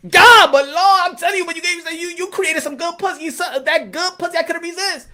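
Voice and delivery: pleading Adam. Acted. Adam pleading excuse to God.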